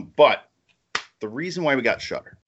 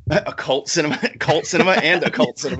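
giggling through the words while he repeats them; laughing; 2 semitones higher than usual. Real, not acted. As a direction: laugh as you say it again and again. Laughing at his own phrase.

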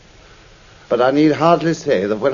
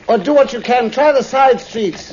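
urgent calling; 10 semitones higher, 5 dB louder than usual. Acted. Doctor calling up to the driver, loud and urgent. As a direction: call out over the noise.

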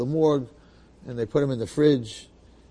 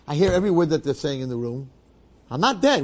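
indignant protest; 3 semitones higher, 4 dB louder than usual. Acted. Man declared dead arguing with the doctors, indignant protest. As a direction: protest with rising insistence.

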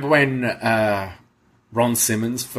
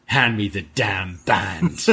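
dramatic tough line; 6 semitones lower, slower than usual. Retold or imitated. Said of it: "Von says".

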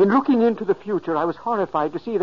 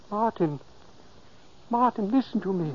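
softer, coaxing murmur; spoke softly; 3 semitones higher, 6 dB quieter than usual. Acted. Ghost speaking softly to sleeping Martin's subconscious, soft call. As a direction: ease into his sleeping mind gently. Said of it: "I spoke softly".

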